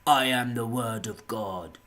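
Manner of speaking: slow, loud self-declared prophet; earnest proclamation. Retold or imitated. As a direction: proclaim it slowly, in total earnest. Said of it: "not even with any ounce of fucking, uh, absurdity about any of it. Genuinely like".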